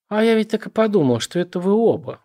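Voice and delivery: put-on slurring drunk woman. A narrator's reading. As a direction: slur the words, tipsy on whiskey. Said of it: "нечётко выговаривая слова под влиянием дешёвого виски".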